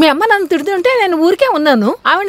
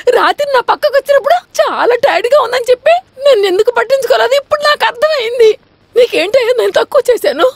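crying. Acted. Wife wailing over betrayal.

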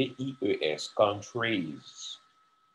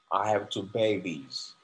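slow model sentence; slower than usual. Shown as a demonstration. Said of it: "example sentence".

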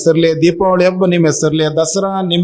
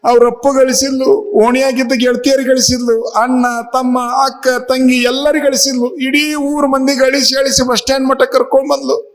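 higher-pitched, hammed-up tearful lament; mock weeping; 6 semitones higher than usual. Crying husband explains his tears to fellow passengers, mock tearful. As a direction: imitate a husband wailing out his woes. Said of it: "ಅಳಾಕತ್ತಿವ".

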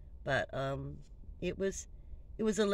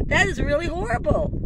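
retold shock; 12 semitones higher, 10 dB louder than usual. Shocked clerk retelling own reaction.

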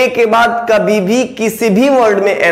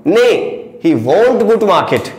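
slow dictation; much slower than usual. Shown as a demonstration. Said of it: "ने के बाद comma लगाओगे".

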